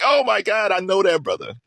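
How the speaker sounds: high, delighted exclamation; excited recognition. Retold or imitated. Fan recognizing the old Shine on the interview, high and excited. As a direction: gush like a fan who knows him.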